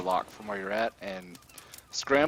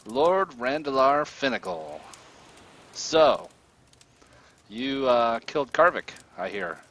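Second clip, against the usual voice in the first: louder, drawn-out gloating villain; toying captor, falling away at the end; taunting villain; 3 semitones higher, 6 dB louder than usual. Acted. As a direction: greet a captive slowly and grandly, voice raised. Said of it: "cocks his head to the side and says".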